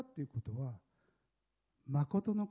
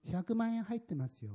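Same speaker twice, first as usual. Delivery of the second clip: tossed-off remark; 3 semitones higher than usual. Retold or imitated. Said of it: "こういうふうにして、ポンって投げ捨てるような感じで".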